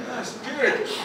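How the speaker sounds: half-swallowed shy mumble; mumbling it shyly to dodge the question; mumbled, disguised. Retold or imitated. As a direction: hide the word, afraid to say it. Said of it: "Disfarça, tô com medo de falar".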